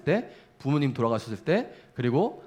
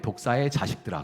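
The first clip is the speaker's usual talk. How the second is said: solemn and grave; 3 semitones lower than usual. Shown as a demonstration. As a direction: read it like stately scripture. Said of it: "근엄하게".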